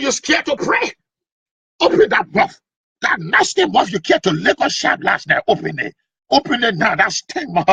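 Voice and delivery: high scolding command; scolding pastor. Acted. Pastor scolds quiet prayers.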